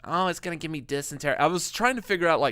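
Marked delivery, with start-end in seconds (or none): 0.0-1.4 Woody Allen impression. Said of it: "a Woody Allen impression".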